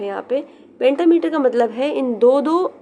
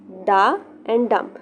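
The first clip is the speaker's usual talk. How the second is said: slow, separated "डा" and "डम", the beat landing on "डम"; light "डा", then a stressed "डम"; unstressed-stressed demo; much slower than usual. Shown as a demonstration. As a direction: space out "डा and डम" as a teacher showing an iamb. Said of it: "जहाँ पे stress दे रहे हैं that is dum".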